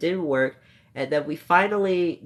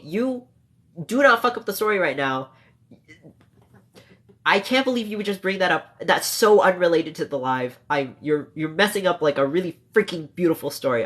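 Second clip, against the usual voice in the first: raised, exasperated telling-off; half-mock angry scolding; 3 semitones higher than usual. Real, not acted. Streamer scolding chat for derailing her story, half-mock angry. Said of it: "I'm so sorry that I'm mad at you".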